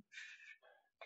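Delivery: sharp unvoiced shush; urgent whispered shh. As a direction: hush him without a voice. Shushing in a library.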